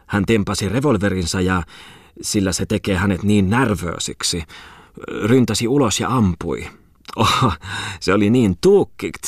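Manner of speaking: a lady's high, put-on foreign lilt on broken Finnish; foreign-accented Finnish. Merchant's wife gushing to the guests in her foreign accent. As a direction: chatter on in a light Swedish-tinged accent. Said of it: "epäsuomalaisella äänensoinnulla".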